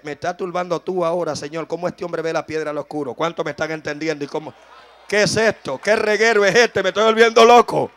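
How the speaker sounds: reenacted bewildered complaint to God; acted troubled prayer. Acts his troubled prayer to God.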